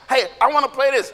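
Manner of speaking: casual, slightly lifted request; a hint of childlike eagerness; lightly acted keen kid. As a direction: put the idea forward. One kid wants the game.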